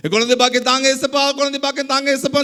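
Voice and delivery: monotone, repetitive begging; mock pleading prayer. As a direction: rattle off the same plea on one note. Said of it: "சொல்லி கேட்டு விட்டுட்டு".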